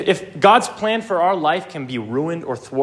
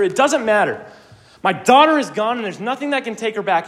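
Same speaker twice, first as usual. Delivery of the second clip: high, insistent tirade with mild force; imitated desperate outburst, pitched high and rapid-fire; retold yelling; 6 semitones higher than usual. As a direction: rant as if yelling at Death, without full volume. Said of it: "and he's yelling at them".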